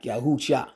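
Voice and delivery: Yahusha said slowly as ya-hu-sha, drawn out; slow pronunciation. Shown as a demonstration. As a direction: stretch out Yahusha for the listener. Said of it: "Sounds like".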